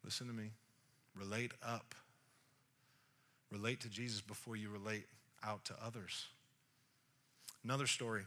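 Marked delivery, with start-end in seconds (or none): 0.0-6.3 low, soft and deliberate; quiet, spaced-out advice; hushed earnest counsel. Real, not acted. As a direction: drop right down for a key lesson. Preacher drives the advice home quietly.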